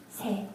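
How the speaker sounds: "Se" with a soft, weak S. Shown as a demonstration. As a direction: keep the S at the start of "Se" light. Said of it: "weak S sound".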